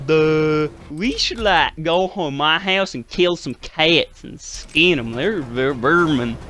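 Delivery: mock redneck drawl, slowed down; imitating a crude Southern hunter; Southern guy voice. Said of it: "they were just like".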